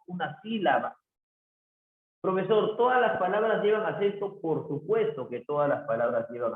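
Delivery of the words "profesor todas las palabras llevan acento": lightly voiced student, higher and quicker; a hint of an eager student; student's question. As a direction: ask it as a curious pupil would, pitched up. Teacher voices a student's question, answers it.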